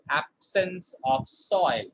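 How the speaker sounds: slow repeat of absence of soil; repeat for the class. Shown as a demonstration. Teacher repeating the phrase slowly for the class. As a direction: say it again slowly, falling on soil.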